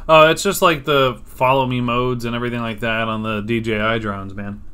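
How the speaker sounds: talking with food in mouth; eating between words; wolfing down food. Real, not acted. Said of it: "I'm sorry I'm eating".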